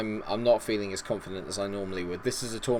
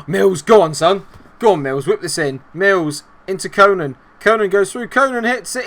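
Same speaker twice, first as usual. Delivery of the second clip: loud urging, climbing higher as the attack builds; excited play-by-play; 7 semitones higher, 10 dB louder than usual. Real, not acted. Gamer commentating as Mills and Conan attack, building excitement. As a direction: urge the players on, pitch rising to the shot.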